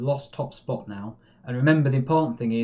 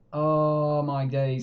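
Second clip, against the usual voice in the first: stunned; much slower than usual. Real, not acted. Near miss against his team.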